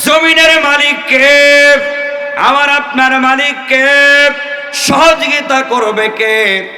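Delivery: rousing waz-style oratory with long melodic cadences; fervent preaching. Real, not acted. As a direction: preach to a crowd, drawing out phrase endings.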